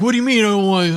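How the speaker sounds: high, indignant pushback; defensive. Retold or imitated. Client snapping back at his coach, defensive and indignant. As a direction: bristle at the accusation. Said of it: "he got all defensive".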